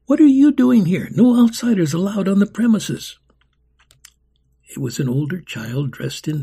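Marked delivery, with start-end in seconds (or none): 0.1-3.2 loud, much higher challenge; young orphan guard confronting the visitors; young voice demanding. Acted. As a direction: stop the strangers cold. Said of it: "a young voice demanded".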